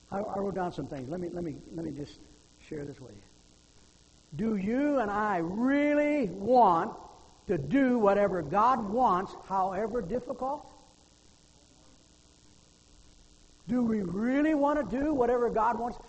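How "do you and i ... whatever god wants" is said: slow, loud, raised pulpit voice; forceful preaching. Real, not acted. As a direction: drive the question home, drawing out the words.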